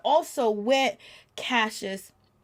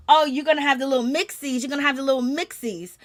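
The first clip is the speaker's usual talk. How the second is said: higher, fast mock gushing; quick, higher singsong imitation of the wife; imitating the wife; 4 semitones higher, faster than usual. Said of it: "she says".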